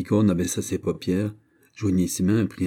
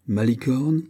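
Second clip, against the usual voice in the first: pitched-up exclamation, rising at the end; mildly excited cry; delighted exclamation; 4 semitones higher, slower than usual. Acted. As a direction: call out the name on reading good news. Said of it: "s'écria-t-elle après avoir lu".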